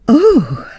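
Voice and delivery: a lady starting in the dark; a short high yelp of alarm; startled cry. A narrator's reading.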